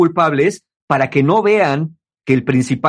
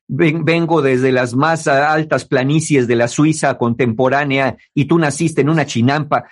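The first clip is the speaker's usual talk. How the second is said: snobbish boasting. Retold or imitated. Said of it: "así lo dicen".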